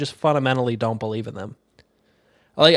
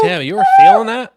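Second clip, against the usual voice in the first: teasing laugh; 10 dB louder than usual. Real, not acted.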